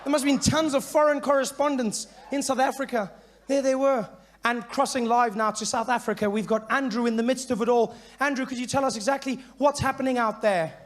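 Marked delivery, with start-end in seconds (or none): 3.5-10.7 news anchor. Retold or imitated. Anchor voice crossing to reporter.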